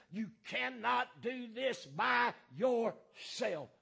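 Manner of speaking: drawn-out preaching shout, every word hammered; slow shout. Real, not acted. Preacher warning congregation they need the church, slow shout. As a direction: shout it slowly so they hear.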